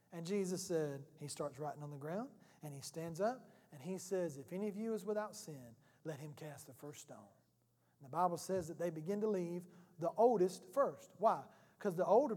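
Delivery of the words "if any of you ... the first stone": softer, low, calm words; quiet calm verdict. Retold or imitated. Jesus quietly answering the accusers with calm authority. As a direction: say it gently and let it land.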